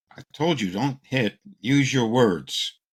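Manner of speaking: playing a fed-up parent lecturing a kid; scolding parent. Parent scolding son who hit his brother, mock-stern.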